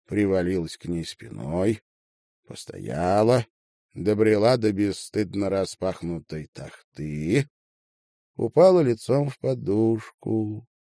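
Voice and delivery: ordinary delivery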